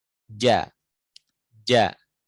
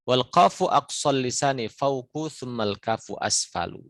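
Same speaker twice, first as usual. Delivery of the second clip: recited verse; 3 semitones higher than usual. Shown as a demonstration. Teacher reciting the verse again. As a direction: chant the rule clearly.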